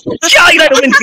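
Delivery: words broken by real crying; crying while making the point. Real, not acted. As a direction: speak through a sob. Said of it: "你别哭".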